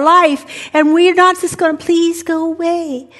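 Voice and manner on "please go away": slow, drawn-out helpless whine; mock pleading. Someone begs God to remove a problem, mock pleading. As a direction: beg feebly, hammed up.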